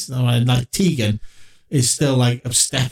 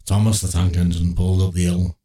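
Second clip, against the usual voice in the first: storybook narrator; 6 semitones lower than usual. Pretend. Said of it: "I would like to see John Bishop go".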